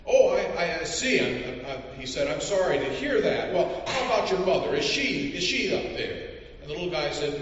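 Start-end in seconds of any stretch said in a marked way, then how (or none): 0.1-2.0 high, louder flustered stammer; shocked stammer. Acted. Census taker hearing the father is in prison, high flustered stammer. 2.3-6.3 high, polite official voice; fussy census taker. Acted. Census taker asking a mountain boy, in a high polite voice.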